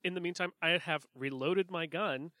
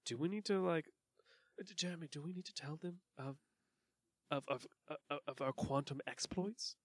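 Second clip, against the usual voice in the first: private message; 5 dB quieter than usual. Acted. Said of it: "I'm specifically talking to Jeremy right now".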